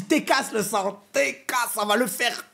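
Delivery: lightly voiced Marseille accent, relaxed; a hint of a laid-back Marseille guy. A driver reassuring a tourist, in a light Marseille accent. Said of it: "c'était un Marseillais".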